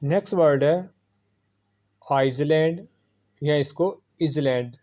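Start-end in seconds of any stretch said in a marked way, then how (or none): 2.1-4.8 आइसलैंड with the s sounded, ice-land; इजलैंड with an iz sound; wrong pronunciations. Shown as a demonstration. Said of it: "लोग पढ़ते हैं".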